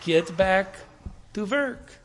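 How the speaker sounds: a little Norwegian accent, lilting up; light Norwegian accent. Shown as a demonstration. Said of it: "With a little Norwegian accent".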